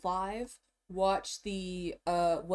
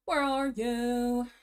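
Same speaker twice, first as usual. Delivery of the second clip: silly voice; 3 semitones higher, much slower than usual. Pretend. Odd put-on voice.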